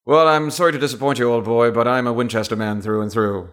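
quick, put-on upper-class British retort; high-class British accent. British gentleman correcting an old boy, high-class British accent. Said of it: "high-class British accent".

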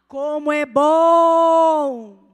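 slow, loud stretched cry of joy; a long, loud exclaimed bom; drawn-out exclaim. Shown as a demonstration. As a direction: savour it, draw it out loud. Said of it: "E você vai ver como é bom".

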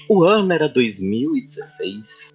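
movie-trailer opening line; announcer voice. Acted. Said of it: "essa voz de locutor".

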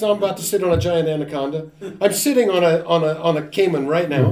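play-acted fright at the snake; mock fear. Lecturer contrasting a panicked fear voice. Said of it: "would you do fear like this?".

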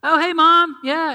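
high, loud and gushing at the sight of her; excited fan voice. Pretend. Crowd member spotting Jesus' mom, excited and gushing. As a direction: squeal it out like a starstruck fan.

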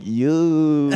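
drawn-out catchphrase in a put-on voice; mock buddy voice, long vowel; Eric impression. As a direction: stretch the vowel, imitating a friend. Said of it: "thing I'll do with you".

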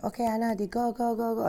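imitating a prince cheering from the cabin; excited cheering. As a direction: cheer her on like an eager boss. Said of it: "And he said".

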